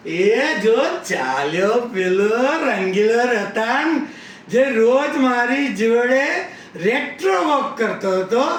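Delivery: mock-dramatic hollering about a passer-by; calling out. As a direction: proclaim it for all to hear. Acting out a call announcing him.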